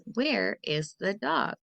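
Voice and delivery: slow question with rising tune on dog; example question. Shown as a demonstration. Teacher modelling a question for kids, slow rising tune. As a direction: lift the end on dog like a question. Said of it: "like the sentence".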